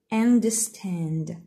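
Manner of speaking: understand with no R, unda-stand; British understand, R dropped; British pronunciation. Shown as a demonstration. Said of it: "we say".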